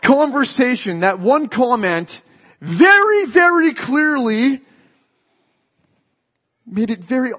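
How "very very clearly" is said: first very high and loud, then slow very clearly; drawn-out emphatic very, very clearly; stress on very. Real, not acted. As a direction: lean hard on very, very. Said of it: "emphatic repeat".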